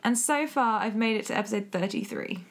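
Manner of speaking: Californian vocal fry; creaky vocal fry, valley style. Real, not acted. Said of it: "I just went really vocal fry Californian then".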